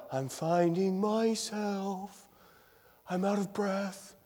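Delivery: slow, soft, airy mock singer's voice; breathy mock singer. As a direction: send up an overwrought singer, hushed. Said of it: "without sounding all, you know".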